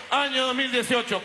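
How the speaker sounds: high, ringing rally cry; ranting dictator speech. Real, not acted. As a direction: proclaim it to the crowd. Rally cries ending a speech. (grito de mitin)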